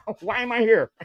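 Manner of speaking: laughing through a bewildered question; laughing confused quote. Retold or imitated. Friend mocking a confusing movie, laughing. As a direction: giggle while asking why you're here. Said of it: "you're like".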